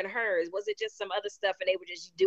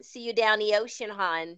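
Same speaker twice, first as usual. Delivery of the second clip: put-on South Baltimore accent. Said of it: "She has that accent".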